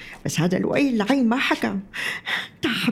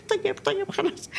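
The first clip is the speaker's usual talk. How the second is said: laughing; 8 semitones higher, 3 dB quieter than usual. Acted. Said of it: "لا تضحكي".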